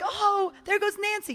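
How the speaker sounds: mock cell gossip. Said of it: "And they're like".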